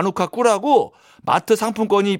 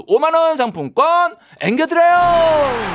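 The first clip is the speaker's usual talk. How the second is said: excited shout; 6 semitones higher than usual. Real, not acted. Announcing gift prize.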